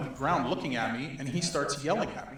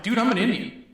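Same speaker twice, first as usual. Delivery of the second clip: high, loud laughing retort; cracking up at the absurdity; laughing disbelief; 8 semitones higher, 5 dB louder than usual. Retold or imitated. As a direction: blurt it out through laughter. Incredulous retort to protester.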